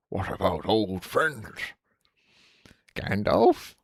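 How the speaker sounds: slow, lightly acted wizard voice; old wizard. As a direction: draw the words out like a visiting old wizard. Acting out Gandalf and Bilbo dialogue.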